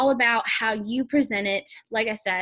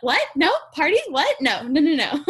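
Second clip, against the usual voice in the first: mock panicked refusal; 5 semitones higher, 5 dB louder than usual. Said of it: "she's gonna be like".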